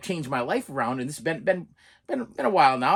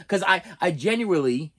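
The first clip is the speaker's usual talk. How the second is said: Boston accent tripping on genuinely; Boston vowels garbling genuinely; 2 semitones higher than usual. Real, not acted. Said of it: "my Boston accent's messing everybody up".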